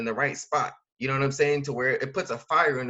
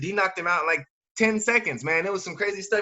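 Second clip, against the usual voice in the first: excited about the fight; 5 semitones higher, 3 dB louder than usual. Acted. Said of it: "You'd be like".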